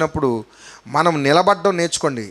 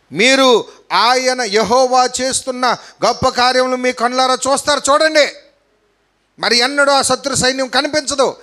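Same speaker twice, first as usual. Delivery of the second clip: raised, ringing preacher's proclamation; higher-pitched, emphatic pulpit delivery; preaching declaration; 5 semitones higher than usual. Acted. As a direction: proclaim it to the congregation.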